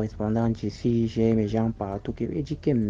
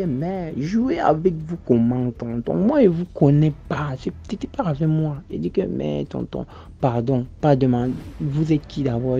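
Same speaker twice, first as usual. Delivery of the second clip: loud, raised defensive denial; indignant protest; 3 semitones higher, 4 dB louder than usual. Retold or imitated. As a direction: insist you do not know him, heatedly. His own indignant denial to the caller. (protestation indignée, forte)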